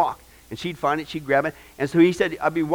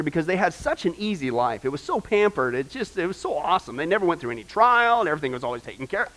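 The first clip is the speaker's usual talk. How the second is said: sarcastic; 3 dB quieter than usual. Acted. Sarcastic list of easy life.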